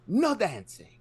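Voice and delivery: very high, slow yelled warning from across the room; yelled from far away. Retold or imitated. Old lady at the roulette table yells at Andy across the lobby, high drawn-out shout. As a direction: shout his name then stretch out the ban. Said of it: "just this Asian lady".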